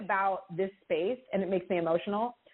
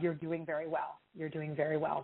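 gentle reassurance; 3 semitones lower than usual. Real, not acted. Psychic reassures caller softly.

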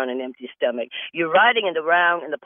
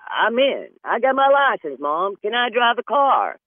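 put-on excited teen; 7 semitones higher, 3 dB louder than usual. Teen voice asking mom.

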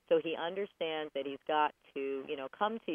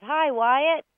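high, loud playful hello; cheery greeting; 8 semitones higher, 8 dB louder than usual. Pretend. Host turns the phone number into a hello, cheery call. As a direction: call it out like greeting a favorite dog.

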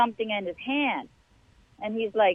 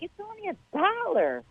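excited bargain find; 9 semitones higher than usual. Retold or imitated.

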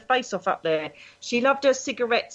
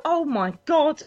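shocked; 6 semitones higher than usual. Retold or imitated. Shock at Google result.

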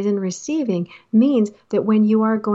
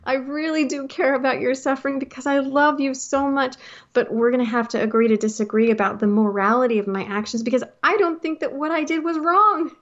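higher-pitched mock husband speech; lightly voiced husband; 4 semitones higher than usual. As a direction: lightly act out a husband's earnest disclaimer, rising at the end. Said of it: "my way of letting my husband say".

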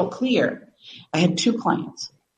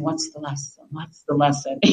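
repeated self-questioning; 4 semitones lower, 6 dB quieter than usual. Retold or imitated. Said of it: "I just kept saying".

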